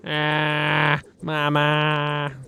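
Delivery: loud grieving wail for Mama; anguished cry. Acted. Sergeant grieves his dead mother.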